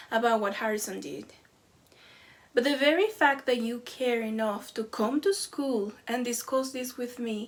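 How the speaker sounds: calm teacher. Retold or imitated. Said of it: "the teacher calmly says".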